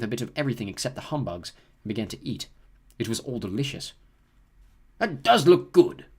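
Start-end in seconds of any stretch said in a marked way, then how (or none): 5.0-6.1 slow, wistful ghost voice; long for the food slowly; sad ghost. A narrator's reading. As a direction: ghost sadly watching steak. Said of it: "said the ghost in the ruff sadly".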